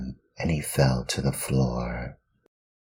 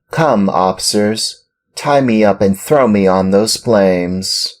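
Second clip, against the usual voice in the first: put-on higher, louder proud puppet boy; proud piercing; 7 semitones higher, 8 dB louder than usual. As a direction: stand up bravely and offer himself. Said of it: "said in a piercing voice".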